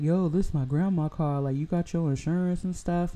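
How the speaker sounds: mock casual guy voice asking about insurance; mocking the other driver. Retelling the other driver's pushy question, lightly mocking. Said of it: "the guy was like".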